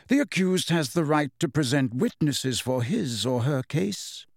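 put-on mild, reasonable old wizard; Dumbledore, pleasant. A narrator's reading. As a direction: make the legal point with polite assurance. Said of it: "said Dumbledore pleasantly".

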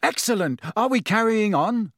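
cheerful, lifting to a high question; bright. A narrator's reading. Fred hoping the party carries on, bright. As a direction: chirp it brightly. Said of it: "said Fred Weasley brightly".

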